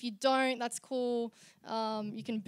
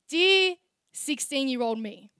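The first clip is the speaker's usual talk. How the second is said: slam poetry; 5 dB louder than usual. Acted. Opens a slam poem letter.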